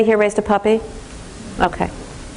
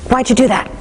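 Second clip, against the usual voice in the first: son's complaint; 4 semitones higher than usual. Retold or imitated. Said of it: "that's how he would talk to me".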